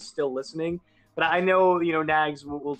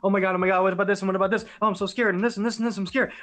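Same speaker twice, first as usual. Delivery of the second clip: higher, rushed mock panic, retelling his dad's words; 4 semitones higher, much faster than usual. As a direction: imitate a scared, fretting voice, half-joking. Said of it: "your response is".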